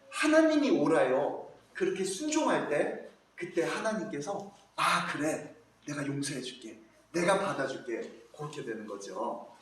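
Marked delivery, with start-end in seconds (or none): 0.1-1.5 humble prayer. Acted. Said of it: "다윗과 같이". 4.8-8.3 gentle forgiving God. Acted.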